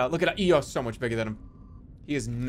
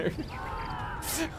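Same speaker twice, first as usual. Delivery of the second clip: high, soft breathless laugh; 12 semitones higher, 8 dB quieter than usual. Real, not acted. Player reacting to a near miss, laughing. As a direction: laugh helplessly under your breath.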